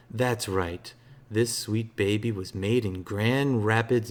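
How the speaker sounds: slow, loud hammed-up movie hero swagger; Evil Dead's Ash showing off his shotgun, cocky and loud; Ash quote reading. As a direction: ham up the boomstick speech like a B-movie hero. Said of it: "Hellbreaker wants me to read... what accent this should be".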